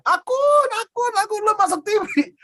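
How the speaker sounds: very high-pitched mock-mother squeal; imitated tearful excitement. Mother phoning her son about his song on TV, imitated excited cry. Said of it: "Dia nangis, itu hari ulang tahun dia".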